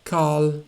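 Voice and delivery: "Carl" ending on a dark, back L. Shown as a demonstration. Teacher gives the example word, dark L in "Carl". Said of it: "dark L".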